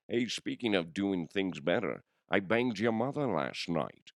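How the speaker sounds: lightly voiced Scottish film-star impression; a hint of a suave Scottish actor's slur; Sean Connery. Podcaster trying out a celebrity voice to taunt himself, Connery impression. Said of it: "I can do Sean Connery".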